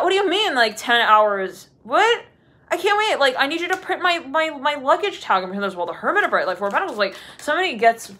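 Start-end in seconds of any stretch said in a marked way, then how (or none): 0.0-4.5 frantic traveller. Retold or imitated. Voicing frustrated traveller at counter.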